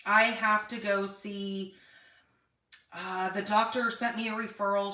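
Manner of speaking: talking around a cough drop; mouth full. Real, not acted. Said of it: "I have a cough drop in my mouth".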